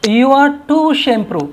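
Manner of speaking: slow example sentence. Shown as a demonstration. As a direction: read it out very slowly, word by word. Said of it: "example देखिए". (बहुत धीरे, शब्द-शब्द अलग करके)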